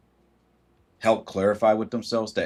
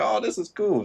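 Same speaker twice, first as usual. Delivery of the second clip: mock delight; 11 semitones higher than usual. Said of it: "And it's like".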